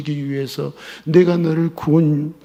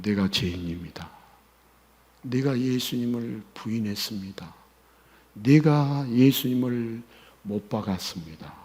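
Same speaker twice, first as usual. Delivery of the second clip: low, soft, humbled prayer voice; humble confession; 3 semitones lower, 3 dB quieter than usual. Acted. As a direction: confess it quietly before God. Acted confession to Jesus. (낮고 겸손한 고백)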